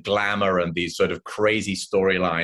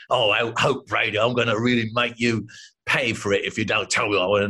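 tough cockney; faster than usual. Retold or imitated. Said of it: "he's gonna be a real tough cockney".

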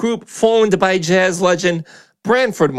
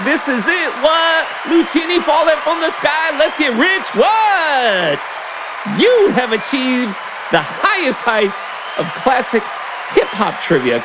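booming prize announcer; 3 semitones higher than usual. Acted. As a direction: hype up the grand prize. Host announces winner, prize.

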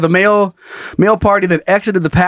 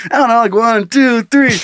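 put-on drunk counting, then go; 6 semitones higher than usual. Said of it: "Am I going on go?".

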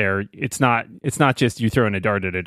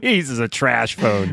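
Grant's voice; much slower than usual. Retold or imitated. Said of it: "We say a lot of crazy things in Grant's voice".

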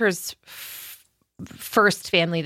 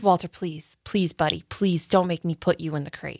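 soft, low coaxing plea; pleading; 3 semitones lower, 3 dB quieter than usual. Retold or imitated. Owner begging the dog to go into the crate, pleading. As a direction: beg gently and quietly, please after please. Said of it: "but I begged".

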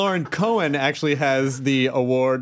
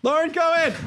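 high, pleading call after someone; mock calling out; 12 semitones higher than usual. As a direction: call the name as if they're leaving. Calling after departed guest.

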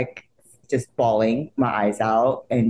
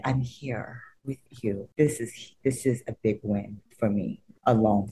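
hushed emotion; 2 semitones lower, 6 dB quieter than usual. Retold or imitated. Emotional words to idol.

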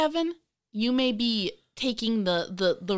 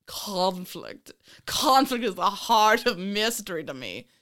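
mock British accent. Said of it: "talking in a British accent saying".

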